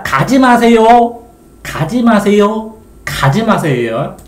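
pleading. Acted. Teacher voicing the poem's plea.

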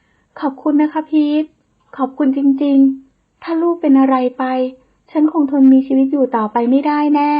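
mother crying her thanks, slow and high; tearful thanks. Acted. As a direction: thank him through tears. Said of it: "บอกให้เธอหยุดร้องไห้".

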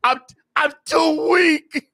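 slow, feeble Emperor voice; mock dying Sith lord; weak Palpatine. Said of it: "I'm over here like Palpatine".

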